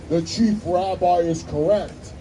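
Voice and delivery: slow, lightly voiced divine pronouncement; a hint of God's voice settling the rabbis' argument, slow; booming voice from heaven. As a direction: proclaim it slowly from above. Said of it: "this big booming voice says".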